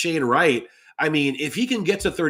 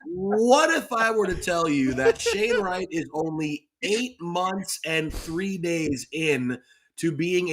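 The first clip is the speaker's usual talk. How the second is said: higher, slowed-down showman's teaser; sales pitch; 4 semitones higher, slower than usual. Acted. Host redoing his pitch for co-hosts, slow showman voice. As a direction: stretch it out like an infomercial host. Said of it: "Excellent sales pitch".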